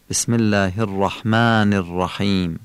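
"الرحمن" as Arabic "rahmææn"; thin alef, heavy R. Shown as a demonstration. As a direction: say الرحمن الرحیم with thick r and long "ææ". («الرحمن» با لهجهٔ فصیح عربی)

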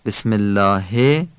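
"الله" with back "aa" and final "e"; Persian kasra. Shown as a demonstration. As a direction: end الله in a Persian "he", not "hi". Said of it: "بسم الله فارسیه". (کسرهٔ فارسی در «الله»)

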